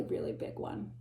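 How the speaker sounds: soft breathless whisper; awed hush. Acted. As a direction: whisper it in awe. Awed aside about giant flower.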